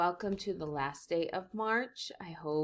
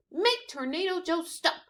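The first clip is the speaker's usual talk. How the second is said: much higher pleading; whiny plea; 10 semitones higher than usual. Acted. Fifi begging the teacher, high and whiny. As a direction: whine to the teacher.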